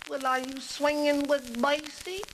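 high, slow jazz-cat question; hip jazz musician. Acted. Musician asking if he plays with a famous bandleader, hip jazz cat. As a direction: swing it slowly, high in pitch. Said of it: "the conversation went like this".

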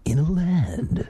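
slow, whispery trailer announcer imitation; movie guy voice. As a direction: open a mock trailer, slow and hushed. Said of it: "I love how he always starts out".

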